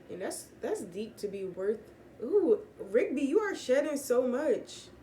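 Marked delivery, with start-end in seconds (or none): 2.2-4.9 high, loud coo at the pet; cooing over the shedding cat. Real, not acted. Talking to her cat.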